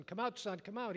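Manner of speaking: a father's relief breaking through. A narrator's reading. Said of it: "he said with relief".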